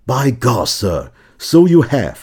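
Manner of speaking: slow, unbothered retort; dry understated reply. Retold or imitated. Wellington answering the earl, slow deadpan understatement. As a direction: drawl it as if it's nothing. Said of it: "威灵顿居然反应是".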